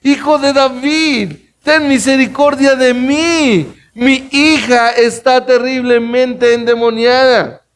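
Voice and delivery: high, slow, pleading cry to the Lord; desperate crying out. Acted. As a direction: cry out like a desperate mother begging for her daughter. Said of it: "¿qué gritó?".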